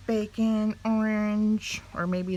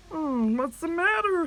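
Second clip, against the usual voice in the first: high, louder kindly voice; funny fellow voice; 10 semitones higher, 4 dB louder than usual. A narrator's reading. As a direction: ask like a funny friendly fellow. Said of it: "said a funny fellow".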